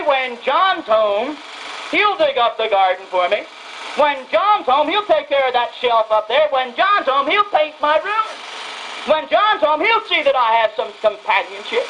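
lightly voiced old mother, longing for her son; mother pining for her soldier son, hinting at an old voice; aged mother. Aged mother dreaming of her son coming home, lightly voiced. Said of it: "And she'll say".

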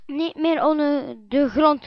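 luide gezamenlijke roep; dieren roepen samen. Acted. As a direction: roep het als een koor dieren. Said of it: "roepen alle dieren samen". (alle dieren roepen samen: luid)

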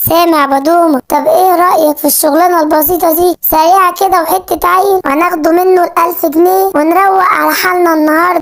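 a petty thief whispering plans to his partner; scheming thief. Acted. Two thieves planning to rob Simba, scheming thief.

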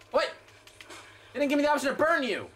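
very high, squealing protest; outraged shrieking. Real, not acted. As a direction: shriek in disbelief at being cheated. Outraged at game opponent.

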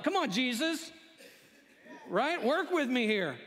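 playfully imploring disciples; insistent coaxing. Acted. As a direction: coach him toward the answer, mock exasperated. Acted disciples pleading with Jesus for kingdom.

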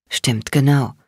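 lightly muffled reply; slightly muffled. A narrator's reading. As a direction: answer as if a little muffled. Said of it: "kam seine Antwort leicht gedämpft".

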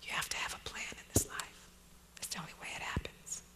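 voiceless whispered quotes; whispering. Real, not acted. Writer advising young people who want to be poets, whispered. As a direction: whisper both sides of the exchange. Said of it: "just like I'm whispering right now".

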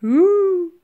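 high, loud ooh; mammoth calling out. A narrator's reading. Mammoth mimics the cooing pensioners, calling out. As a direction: hoot a long cheeky ooh. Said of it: "called out Woolly".

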